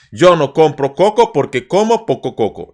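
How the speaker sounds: slow, deliberate syllables; slow tongue twister. Shown as a demonstration. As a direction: take it too slowly. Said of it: "It's so slow".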